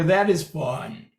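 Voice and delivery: low, slow and flat demo; low starting pitch. Shown as a demonstration. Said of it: "So you can go".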